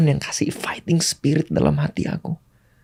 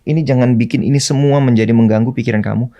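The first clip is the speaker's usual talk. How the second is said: calming self-talk; 2 semitones lower than usual. Retold or imitated. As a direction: talk yourself down before the fight. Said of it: "aku mencoba untuk menenangkan diri".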